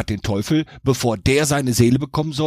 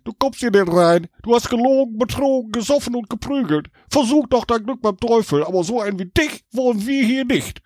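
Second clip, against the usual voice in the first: much higher, stern gatekeeper voice; a strict doorman turning him away; Petrus; 9 semitones higher than usual. A narrator's reading. Petrus refusing Jack at heaven's gate, stern. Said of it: "doch Petrus, der Torwächter, sagte".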